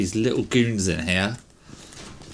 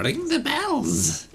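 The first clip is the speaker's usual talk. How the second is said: dragged out, high and slow; slow, drawn-out quote; much slower than usual. Retold or imitated. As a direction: stretch each word way out. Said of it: "Viva La Dirt League".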